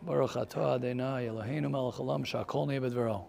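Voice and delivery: soft, quick murmured Hebrew blessing; muttered blessing. Retold or imitated. The grumpy old man on the plane quietly murmuring his blessing. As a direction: mumble the bracha under your breath, quickly.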